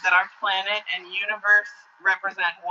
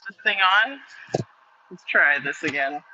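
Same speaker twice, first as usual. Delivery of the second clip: bad connection. Real, not acted. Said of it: "you sound a little choppy".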